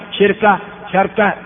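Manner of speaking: شركة as shirka, then sharka; two short variants. Shown as a demonstration. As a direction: say شركة first with i, then a, r vowelless. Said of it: "هذه كلها لغة صحيحة". (شركة بكسر الشين ثم فتحها مع تسكين الراء)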